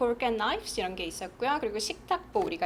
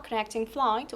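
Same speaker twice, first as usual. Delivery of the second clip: "Connecting flight" slowly, up on "flight"; rising list intonation; much slower than usual. Shown as a demonstration. Teacher models the second noun, rising on "flight". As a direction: lift "flight" as a middle list item. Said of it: "올려주시고요".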